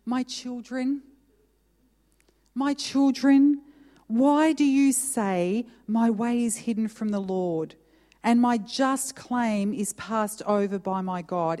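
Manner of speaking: a tender father's plea. Acted. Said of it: "he's tenderly saying to you".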